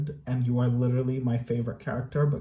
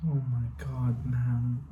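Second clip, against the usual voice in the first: whispered; 6 dB quieter than usual. Real, not acted. Reacting to emotional scene.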